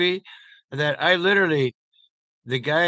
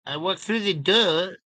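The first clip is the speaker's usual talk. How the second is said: Clouseau French accent; 5 semitones higher than usual. Shown as a demonstration. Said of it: "talk a little bit Clouseau".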